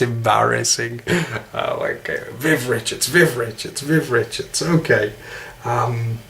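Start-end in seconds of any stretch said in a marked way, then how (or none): 2.3-4.6 practising a Caribbean sound; tentative Caribbean warm-up on a name; Caribbean accent. Shown as a demonstration. Warming up with a cricketer's name, Caribbean accent. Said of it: "Me trying to sound like a Caribbean guy".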